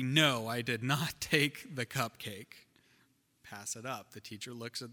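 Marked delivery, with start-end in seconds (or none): 0.0-2.7 slow and emphatic, with a laugh; mock emphatic denial through a laugh. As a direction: stamp each word of the denial. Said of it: "very emphatically".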